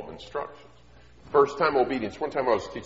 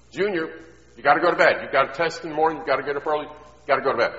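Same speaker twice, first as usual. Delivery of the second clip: lightly voiced mom, louder and a bit higher; mom calling to bed; 4 semitones higher, 6 dB louder, much faster than usual. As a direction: call out a firm bedtime order. Mom calls son to bed.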